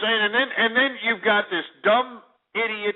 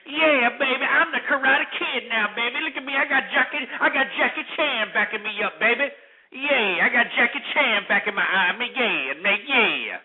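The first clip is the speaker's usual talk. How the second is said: higher, swaggering mock voice of a bragging kid star; mocking a cocky kid; 4 semitones higher than usual. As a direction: brag it up like a spoiled child actor. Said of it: "Jada Pinkett's kid to come in here".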